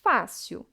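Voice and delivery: "fácil" with the stress on FÁ; stress on penultimate syllable. Shown as a demonstration. Teacher giving a paroxytone example, "fácil" stressed on FÁ. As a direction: lean on the first syllable of "fácil". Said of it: "a penúltima fá".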